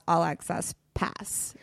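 slow, hushed whisper. Real, not acted. Confiding to her cohost what she wanted, slow whisper. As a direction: let the wish slip out as a secret. Confessing a secret wish.

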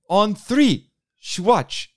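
tag. Retold or imitated. Acts out guest's photo call.

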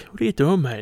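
high friendly call; calling out to a dog. Retold or imitated. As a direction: call out cheerily to your dog.

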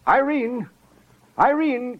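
high, loud startled shout of a name; calling out. Acted. Dorcas shouting for Irene to come in. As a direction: yell for her to come.

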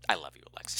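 stoned and drifting; stoner. Real, not acted. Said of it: "I'm high as a kite right now".

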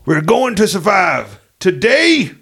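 rousing presidential address, building in pitch to the end; rally the troops before the final battle; presidential speech. Acted. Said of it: "you went Bill Paxton on that".

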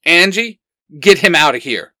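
put-on young leader snapping at a friend. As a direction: cut the scuffle short. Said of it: "Xander snaps".

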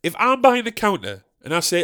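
ordinary delivery

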